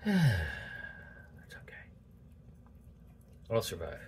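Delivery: slow whisper to herself; breathy slow self-comfort; whispered reassurance. Real, not acted.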